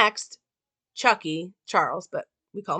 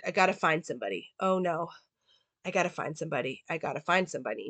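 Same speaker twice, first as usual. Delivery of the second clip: softer and quicker as strength drains; losing blood, voice dying away; fading weak mutter; 2 semitones lower, 8 dB quieter, faster than usual. Retold or imitated. Wounded Charles fading from blood loss, muttering to himself. Bleeding man growing weak.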